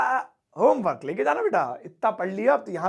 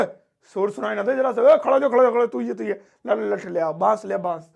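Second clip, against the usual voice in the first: scary teacher yelling. Retold or imitated. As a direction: bark at the class like a feared teacher. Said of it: "कुछ teachers बहुत खतरनाक होते हैं".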